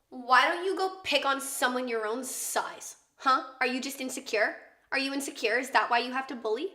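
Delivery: lightly voiced sassy kid scolding a bully; imitated little sister. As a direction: mimic a self-confident child's challenge, questions rising. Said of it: "And she was like".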